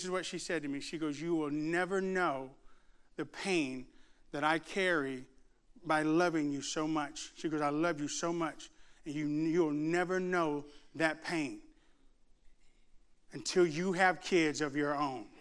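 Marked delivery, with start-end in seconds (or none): 1.2-7.3 slow, low and soft, with pauses; pained mother, imitated. Mother to son after a hug, quiet heartache. 7.6-15.3 slow, low and soft, with pauses; pained mother, imitated. Mother to son after a hug, quiet heartache.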